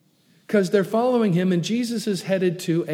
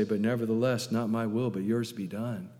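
lower, softening toward the end; submissive prayer; 6 semitones lower, 6 dB quieter than usual. Retold or imitated. Preacher's own request to God, softly submissive. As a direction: let the request sink into surrender. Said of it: "even in my requests".

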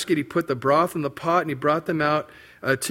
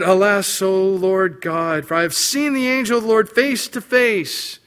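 fearful cry; 4 semitones higher, 5 dB louder than usual. Acted. Gideon terrified seeing angel.

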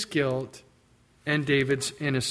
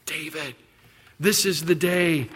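slow, urgent coaxing; eager soldier; 3 semitones higher, 3 dB louder, slower than usual. Acted. Soldiers urging David, slow coaxing. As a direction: egg him on like a soldier.

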